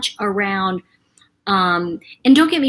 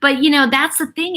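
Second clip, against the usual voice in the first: whisper; 4 semitones higher than usual. Real, not acted. Whispered line.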